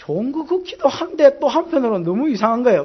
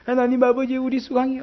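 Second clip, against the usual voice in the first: prayer tone; 4 semitones higher than usual. Retold or imitated. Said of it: "기도 톤이 있어요".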